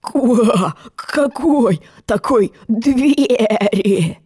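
slow hoarse croaky grumble; grumbling frog. Acted. Frog asks Alice which door, slow croaking grumble. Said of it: "буркнул лягушатище".

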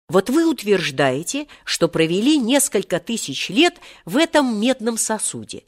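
lightly acted nervous questioning; trembling voice. A narrator's reading. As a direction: speak up timidly, voice trembling. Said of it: "произнёс тогда Серёжа дрожащим голосом".

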